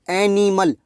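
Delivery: एनिमल with a clear open ए at the start; demonstrating pronunciation. Shown as a demonstration. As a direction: sound out एनिमल, leaning on the first vowel. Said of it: "ए की निकलेगी".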